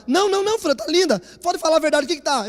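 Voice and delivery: imitating wife. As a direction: coax him to tell the truth, lightly voiced.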